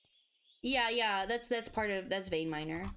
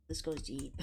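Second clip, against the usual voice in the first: unvoiced low whisper; 7 semitones lower, 4 dB quieter than usual. Shown as a demonstration. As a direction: breathe it out as a whisper. Repeats in a whisper.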